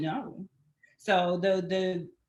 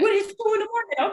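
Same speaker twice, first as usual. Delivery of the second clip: mock indignant man; 10 semitones higher than usual. Man's outraged reaction voiced.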